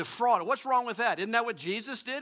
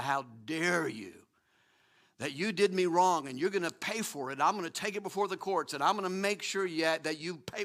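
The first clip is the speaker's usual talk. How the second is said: mock indignation; 2 semitones lower than usual. Voicing the flesh demanding justice.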